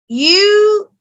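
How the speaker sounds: mildly annoyed scolding of a mother. Retold or imitated. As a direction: complain with a touch of exasperation. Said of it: "I was so annoyed at my mother".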